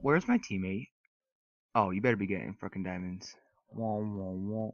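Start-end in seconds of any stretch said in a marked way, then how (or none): 3.7-4.7 low, soft "wah wah wah"; imitated wailing, played small; mock wailing noise. Gamer to himself in play, mock wah-wah noise.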